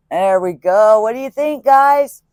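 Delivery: high, bright question to viewers; excited. Real, not acted. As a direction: ask the viewers eagerly, pitch way up. Showing off finished piece.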